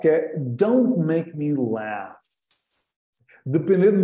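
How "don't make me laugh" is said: slow, careful teacher read; slow model phrase. Shown as a demonstration. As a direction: say it slowly for learners. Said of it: "Eu gosto desta, desta próxima frase".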